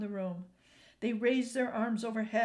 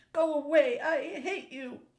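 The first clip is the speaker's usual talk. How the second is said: put-on loud, high child's furious yell; angry shout; 7 semitones higher, 7 dB louder than usual. A narrator's reading. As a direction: scream it at grandfather. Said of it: "An shouted".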